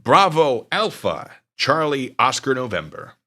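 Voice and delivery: slow radio spelling; phonetic alphabet. Shown as a demonstration. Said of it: "I'll do it phonetically".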